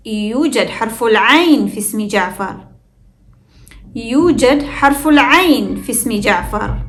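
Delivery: في اسم run together as "fism"; hamza dropped, linked. Shown as a demonstration. Teacher shows learners في اسم mid-sentence, linked without hamza. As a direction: glide from the f of في straight to the s of اسم. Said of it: "It flows as one word".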